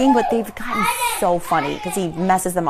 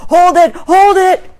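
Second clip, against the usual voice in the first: high, loud, drawn-out imitation; mock toddler command; toddler shouting; 10 semitones higher, 9 dB louder, slower than usual. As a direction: shout it slowly like a small boy. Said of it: "he shouts".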